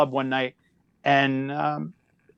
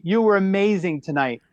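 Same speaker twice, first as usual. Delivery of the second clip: a light creepy raised voice with a twang; hint of a creepy Krueger twang; mild spooky Krueger impression; Freddy Krueger voice; 5 semitones higher than usual. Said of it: "with this Freddy Krueger voice".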